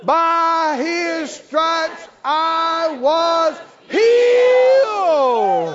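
"healed" shouted very high and long; slow build, then blast "healed"; stress on HEALED. Shown as a demonstration. Preacher hitting the final word hard. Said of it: "you can emphasize every word".

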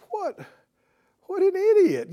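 high, loud "what an idiot"; self-reproach cry. Retold or imitated. Peter realizing his failure, crying out at himself. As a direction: curse yourself out loud. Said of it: "he realizes".

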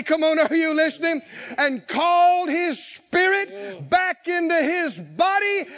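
high, loud and driving; preaching shout. Real, not acted. Preacher urging his listeners, shouting. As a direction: push it at the crowd.

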